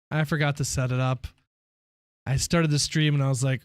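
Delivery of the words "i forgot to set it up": deflated repeat. Real, not acted. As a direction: sigh it out as a letdown.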